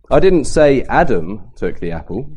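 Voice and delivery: "Adam" stressed, rising tune; emphasis on "Adam" to question who did it. Shown as a demonstration. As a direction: lean on "Adam" as if it was someone else. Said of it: "so who else did?".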